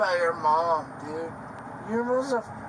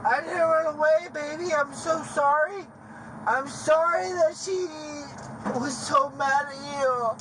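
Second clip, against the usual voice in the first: pleading apology; 6 semitones higher than usual. Acted.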